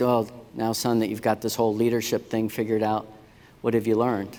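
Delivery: wry, teasing, sarcastic tone. Retelling a remark to a son after his platoon leader time: retelling a sarcastic remark. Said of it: "I sarcastically said".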